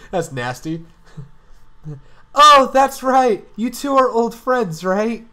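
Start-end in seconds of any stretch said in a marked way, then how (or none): 2.3-5.3 character voice. Acted. Character line read aloud.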